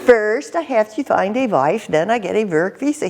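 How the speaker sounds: put-on repeating the Swedish-accented line; mock Swedish lilt, again in character; light Swedish accent impression. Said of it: "speaking English with a Swedish accent".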